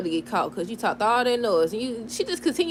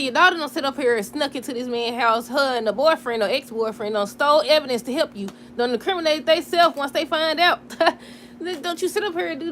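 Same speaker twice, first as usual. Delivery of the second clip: scolding; 4 semitones higher, 4 dB louder than usual. Retold or imitated. Scolding Portia in retold advice.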